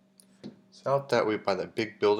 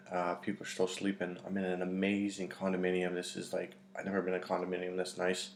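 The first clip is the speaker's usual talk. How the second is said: softer, keeping it down indoors; hushed voice; 3 semitones lower, 6 dB quieter than usual. Real, not acted. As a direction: talk low so nobody wakes. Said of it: "I don't wanna be too loud".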